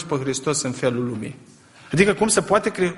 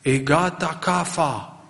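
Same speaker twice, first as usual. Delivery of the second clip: mock morning cry; slower than usual. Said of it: "știți după ce strigă".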